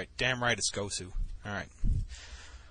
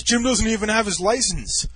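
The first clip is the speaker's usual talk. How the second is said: high, raised-voice mock outrage; indignant tattling yell; drunken protest; 8 semitones higher, 5 dB louder than usual. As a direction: imitate a drunk friend loudly objecting. Acted drunk friend protesting.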